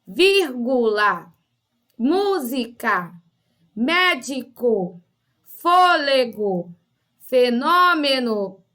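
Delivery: slow, each word split into syllables with falling end. Shown as a demonstration. Teacher showing pupils how to separate syllables, slow and segmented. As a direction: draw every syllable apart, pausing between words. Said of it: "você pode separar as sílabas da palavra".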